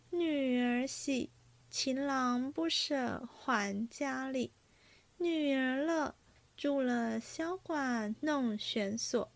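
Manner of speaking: slow, measured recital of a verse; verse recitation. A narrator's reading. Singing girl recites her drinking-game verse, slow recitation. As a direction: recite it line by line, drawing it out.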